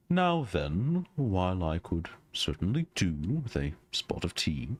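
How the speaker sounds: a hint of a polite English gentleman; mild genteel gentleman voice; lightly voiced refined gentleman. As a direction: speak like a courteous older gentleman.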